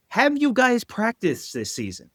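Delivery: high, slow incredulous sneer; sarcastic question. Real, not acted. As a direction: ask it in disbelief. Mocking rhetorical question.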